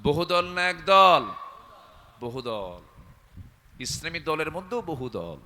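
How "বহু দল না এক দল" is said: louder repeat to the crowd; louder on request. Acted. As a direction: repeat the question louder, slow. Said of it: "আসতে কয়".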